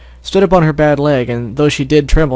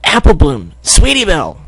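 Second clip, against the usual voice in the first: excited greeting; 4 semitones higher, 5 dB louder than usual. Acted. Greeting arriving friends.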